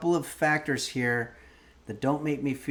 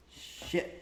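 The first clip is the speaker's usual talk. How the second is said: whispered curse; 7 dB quieter than usual. Real, not acted. Burnt fingers on hot food.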